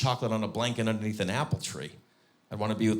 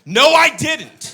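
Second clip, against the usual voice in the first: much higher, loud, slow denial; dad's stern denial; 12 dB louder, much slower than usual. Retold or imitated. Dad turned around in car, slow loud denial. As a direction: hammer it out slowly. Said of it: "and I go".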